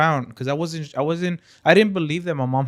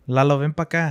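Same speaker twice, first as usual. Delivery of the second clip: a hint of mom calling out, louder; raised-voice imitation of mom; imitating mom calling; 2 semitones higher, 6 dB louder than usual. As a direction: lightly imitate a mother calling from another room. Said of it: "it was like this".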